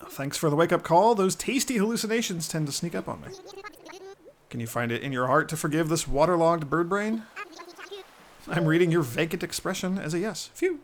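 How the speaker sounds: high, loud, dopey sailor bird; goofy seagull voice. Acted. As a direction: play a dazed seafaring gull.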